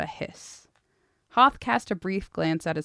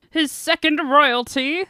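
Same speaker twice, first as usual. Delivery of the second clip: pompous fussy courtier; 10 semitones higher, 9 dB louder, slower than usual. Acted. Orator continues announcement.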